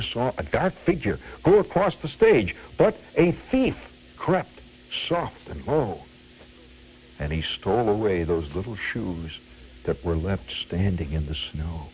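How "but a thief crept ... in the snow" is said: imitated orator unveiling a villain; dramatic reciter. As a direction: recite it as stage melodrama, pausing after phrases. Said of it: "in a very dramatic voice".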